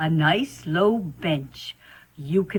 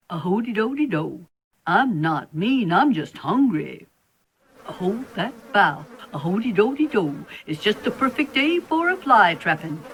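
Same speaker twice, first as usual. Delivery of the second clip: sing-song spider; 3 semitones higher than usual. Acted. Spider sings.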